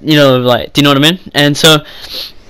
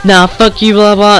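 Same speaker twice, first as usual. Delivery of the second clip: higher-pitched mimicry of her retort; mocked angry girl; 5 semitones higher, slower than usual. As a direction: throw her words out in a high mocking voice. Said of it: "And then she's like".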